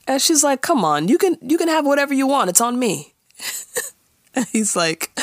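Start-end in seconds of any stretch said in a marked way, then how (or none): 0.6-3.1 coaxing. Retold or imitated. Coaxing coworker, retold.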